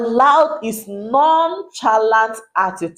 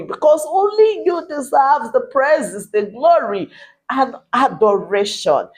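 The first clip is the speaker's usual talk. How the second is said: prayer. Acted. Pastor praying over a troubled wife, earnest prayer voice. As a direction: pray over her with conviction.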